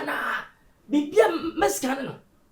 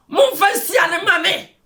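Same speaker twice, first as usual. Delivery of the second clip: raised, demanding voice; insistent shout; 3 semitones higher than usual. Acted. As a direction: shout the demand across an argument. Heated quarrel, repeated demand.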